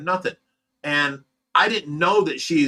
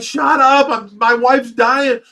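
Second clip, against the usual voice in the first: much higher, louder, slow frantic yell; desperate shout; 8 semitones higher, 8 dB louder, slower than usual. Retold or imitated. Husband yelling at the 911 operator, desperate and loud. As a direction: shout it at the operator while your wife is dying. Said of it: "I'm like".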